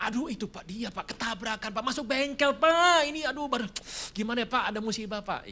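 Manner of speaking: high, pleading excuse voice; mild imitation of a begging debtor; whiny excuses. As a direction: whine your way out of it.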